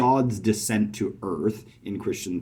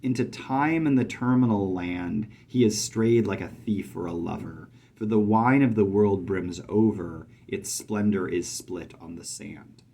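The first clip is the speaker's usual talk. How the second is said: poem reading. Shown as a demonstration. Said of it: "does something very interesting".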